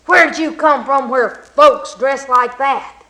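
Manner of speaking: loud, slow, rough amazement; gruff astonished question. Acted. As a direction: demand it in disbelief. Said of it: "said Wicked John".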